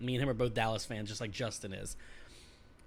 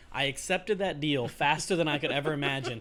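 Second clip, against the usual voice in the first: laughing while telling; 5 dB louder than usual. Real, not acted. Gleeful story of winning trade.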